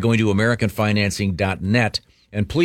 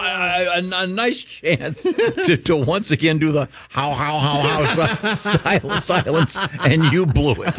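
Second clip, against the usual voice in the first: higher, laughing through the words; laughing tease; 8 semitones higher than usual. Real, not acted. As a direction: crack up while teasing. Teasing cohost, laughing.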